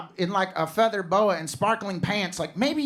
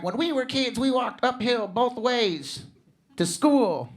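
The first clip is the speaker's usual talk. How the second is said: mock parent lecture; 5 semitones higher, slower than usual. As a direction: lightly mimic a preachy parent, drawn out. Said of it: "my parents were always telling me".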